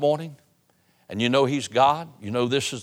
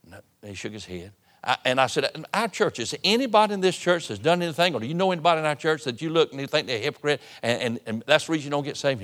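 retold frustration; 3 semitones higher than usual. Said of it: "a little bit angry with him".

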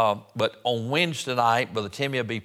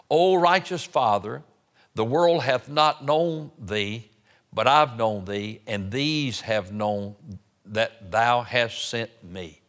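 scripture reading; slower than usual. Real, not acted. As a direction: call out the first words, then read on deliberately. Reads scripture aloud.

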